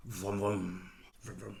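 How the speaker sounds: low, soft vroom-vroom; playful toy-car vroom; mock engine noise. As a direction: make little engine noises, fading away. Imitates engine noise with the cutter.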